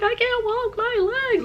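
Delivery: high, loud mock wail; imitated bawling. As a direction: cry out in hammed-up agony. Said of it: "So I was crying, bawling".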